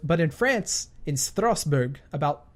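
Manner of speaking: lightly put-on Russian accent. Vlogger reading the French girl's messages, unintended Russian accent. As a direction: read it with a hint of a Russian accent. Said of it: "gave that a Russian accent".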